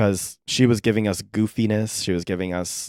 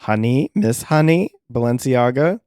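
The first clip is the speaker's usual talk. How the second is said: excited shout-out; 4 semitones higher, 5 dB louder than usual. Real, not acted. Hailing ballroom legends.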